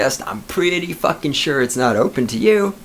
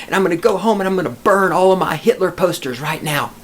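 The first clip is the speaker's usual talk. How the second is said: mock conversion; 4 semitones higher than usual. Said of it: "He's gonna say".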